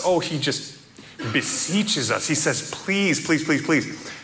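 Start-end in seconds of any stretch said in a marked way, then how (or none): 2.7-4.1 imploring. Retold or imitated. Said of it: "John implores us".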